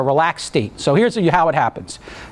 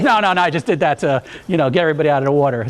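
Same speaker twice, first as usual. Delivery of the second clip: laughing explanation; faster than usual. Retold or imitated. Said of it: "He goes".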